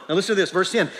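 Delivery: ordinary talk, nothing marked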